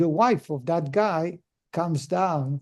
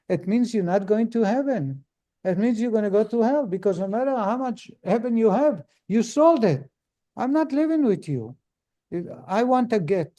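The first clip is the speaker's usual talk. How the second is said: higher, rising indignation at her husband; indignant wife; 3 semitones higher than usual. Retold or imitated. Wife berating her husband, indignant and higher. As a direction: scold him like a shocked wife.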